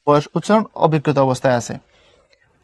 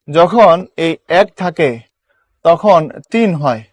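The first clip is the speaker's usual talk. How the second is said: slow rule recital; slower than usual. Shown as a demonstration. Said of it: "কি বলছি বলো".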